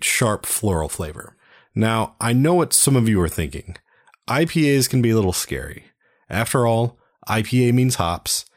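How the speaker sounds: measured beer-recommendation read; scripted ad read. Acted. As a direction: present it like a radio sponsor spot.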